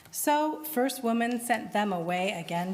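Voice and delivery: plain reading voice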